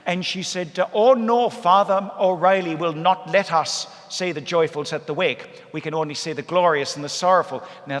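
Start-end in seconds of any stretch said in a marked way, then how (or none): 0.9-7.6 put-on old lady's voice. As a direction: squeal it like a shocked rosary lady. Lady objects to joyful mysteries.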